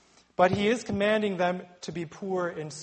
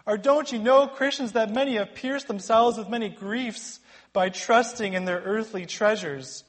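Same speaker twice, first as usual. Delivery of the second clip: much higher and louder, urgent pleading no; forceful plea; 7 semitones higher, 7 dB louder than usual. Retold or imitated. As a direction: cry out to stop them from playing with fire. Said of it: "this is a forceful".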